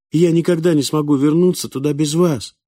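plaintive. A narrator's reading. The boy needs Falk to get home, plaintively. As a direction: appeal to him mournfully. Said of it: "жалобно произнёс мальчик".

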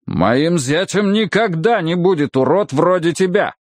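angry. Acted. Father rejects suitor angrily.

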